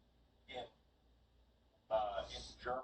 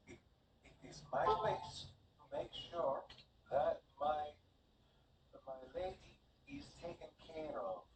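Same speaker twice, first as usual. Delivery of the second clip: slow, slightly higher, firm servant; handmaid's duty; 4 semitones higher than usual. Acted. Handmaid telling the table her lady must be cared for. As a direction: insist on your duty to your lady, slowly.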